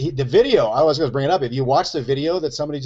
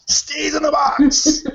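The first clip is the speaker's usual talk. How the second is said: high, slow silly voice; 11 semitones higher, much slower than usual. Pretend. Joking about staying in frame.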